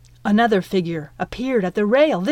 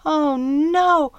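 rising panic, higher each time; dismayed; 10 semitones higher, 4 dB louder, slower than usual. Acted. Midge realizes why Piper came, rising panic. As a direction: build from dismay to alarm.

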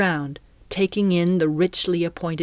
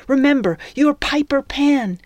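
high, louder pep talk to oneself; rally your own courage, pitched up; self-encouragement; 8 semitones higher, 4 dB louder than usual. Acted. Heroine reminds herself who she is before the captain, self-encouragement.

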